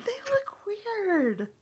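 laughed through, slow and high; amused, laughing as she talks. Real, not acted. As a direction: giggle the words out. Laughing at odd-looking characters.

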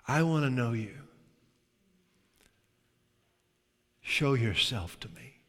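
gentle, unforced prayer with long pauses; sincere prayer. Shown as a demonstration. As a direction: speak simply and intimately to God. Models sincere private prayer after mock one.

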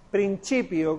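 PRINCIPIO said prin-CHI-pio; Italianate C. Shown as a demonstration. Teacher showing the sound taken from Italian, ch pronunciation. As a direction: say the second c of principio as ch. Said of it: "como si fuera una C H".

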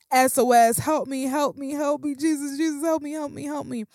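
high, rushed mock plea to Jesus; acted cry for help. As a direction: call out a repeated plea like a man going under. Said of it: "he cried out to God".

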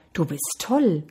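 understated answering echo. A narrator's reading. Mountains answer the boy's call, restrained echo. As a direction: hand it back as a fainter echo. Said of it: "Aus den Bergen hörte er".

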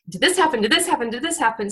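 mildly frantic inner questions, run together; rapid-fire mock worry, trailing down; racing anxious thoughts. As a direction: imitate a worried mind firing off questions. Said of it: "crazy stuff going on inside your brain".

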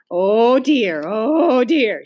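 loud, drawn-out in-and-out moan; sway the words like harmonica wheezes; swelling sing-song lament; imitated harmonica breathing. A narrator's reading. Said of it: "she inhaled and exhaled".

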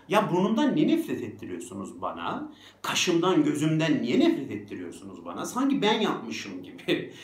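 exasperated, rising complaint; aggrieved questioning; indignant protest. Acted. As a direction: push back, stressed and indignant. Indignant rant as the mocked person.

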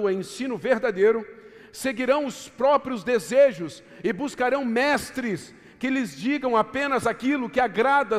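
forceful, measured preaching of a Bible verse; scripture declamation. Acted. Preacher quotes Paul's letter to the congregation, declaimed forcefully. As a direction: proclaim each command and warning to the congregation.

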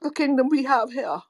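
put-on British accent slipping into African. Co-host describing the kingdom, accent drifting into African. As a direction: let the mock accent drift toward African. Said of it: "going into the African one now".

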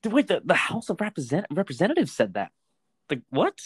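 high-pitched, worked-up dude wait; can't believe what he just read; excited disbelief. Real, not acted. Telling his co-host the House said it, worked-up disbelief. Reacting to shocking fact.

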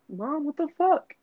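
high, exasperated whine; protesting son. Retold or imitated. Son protesting to his mom, high whiny voice. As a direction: pitch it way up, complaining to mom. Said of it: "and I was like".

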